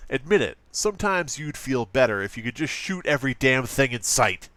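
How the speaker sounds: hammed-up edgy ad read. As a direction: lean into a mock-extreme nineties ad voice. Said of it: "hard not to go into that voice".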